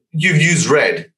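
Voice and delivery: mock outrage, no real shout; retold angry rant. Client berating his designer about the leaflet, mild mock rant. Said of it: "shouting, screaming".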